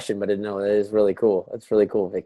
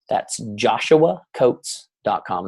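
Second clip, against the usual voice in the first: "joshua coates dot com" read slow and deliberate like an ad; slow, spelled-out ad read of the web address; infomercial pitch; 3 dB quieter, slower than usual. Shown as a demonstration. Plugging his website to the team call like an infomercial. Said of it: "Now I feel like an infomercial".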